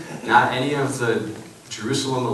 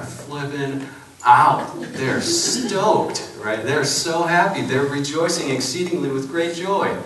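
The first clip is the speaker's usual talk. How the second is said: higher and louder, bursting with excitement over the Magi; excited; 5 semitones higher, 4 dB louder, slower than usual. Real, not acted. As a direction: get swept up in their joy. Magi flipping out with joy.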